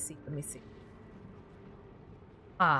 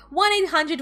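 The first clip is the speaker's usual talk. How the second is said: repeated number; 7 semitones higher than usual. Shown as a demonstration. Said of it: "commercial voice".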